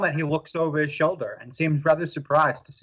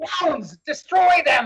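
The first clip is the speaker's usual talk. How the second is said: very high-pitched mad scientist villain voice; 12 semitones higher than usual. In a tabletop game, a villain orders the hounds to attack: mad scientist voice. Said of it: "mad scientist is here".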